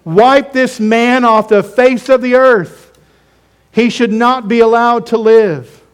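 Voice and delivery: hammed-up mob yell in a sermon; mock mob shout. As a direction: bellow it like the angry crowd.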